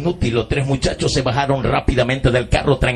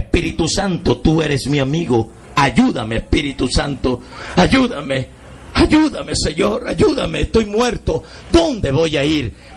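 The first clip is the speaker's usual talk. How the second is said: anguished prayer; 3 semitones higher than usual. Retold or imitated. Soul cries to Holy Spirit.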